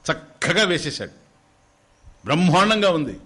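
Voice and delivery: slow, loud, high praise; slow emphatic wonder; admiring. Real, not acted. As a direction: savour the marvel. Praising the perfect portrait.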